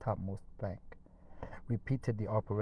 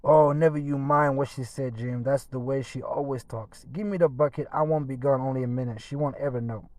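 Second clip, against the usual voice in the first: coaxing Tom; 3 semitones higher, 8 dB louder than usual. A narrator's reading. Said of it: "Tom coaxing Jim".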